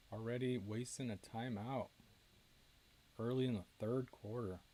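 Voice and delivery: talking while chewing ice; words round a mouthful of ice. Real, not acted. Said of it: "Sorry, chewing ice on the air".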